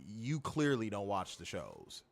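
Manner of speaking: low, slow, understated aside; inner thought. Retold or imitated. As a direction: think it to yourself, softly and slowly. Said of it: "in my mind, I'm like".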